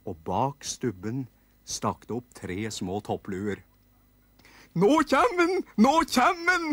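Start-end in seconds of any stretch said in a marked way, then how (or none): 4.8-6.7 put-on high squeaky kids' voices, shouted; little nisse kids shouting. Nisse kids calling out that the carpenter arrives, high excited shout. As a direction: squeal it out like excited tiny elves. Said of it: "ropte nisseunga".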